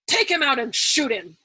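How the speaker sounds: loud curt command; ordered. A narrator's reading. General ordering the officer shot, loud and curt. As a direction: give the order flatly, loud. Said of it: "ordered General Dreedle".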